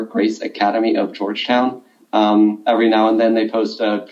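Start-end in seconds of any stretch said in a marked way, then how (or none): 0.0-1.8 Grace Academy of Georgetown said a little slower, word by word; measured repeat of "Grace Academy of Georgetown" for listeners. Shown as a demonstration. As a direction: give the school name slowly enough to catch. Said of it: "I'll say that again slower".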